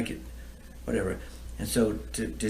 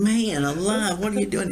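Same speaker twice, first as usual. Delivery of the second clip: high, loud call broken by laughter; laughing disbelief; 11 semitones higher, 5 dB louder than usual. Retold or imitated. Laughing at his buddy stomping the mullet, high loud call. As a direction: laugh at him while you shout it.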